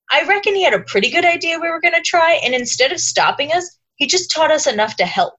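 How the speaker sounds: Mike impression. Reading Harry's speech as a light Mike impression. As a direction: read the passage as a hint of Mike. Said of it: "delivered that whole thing in your Mike impression".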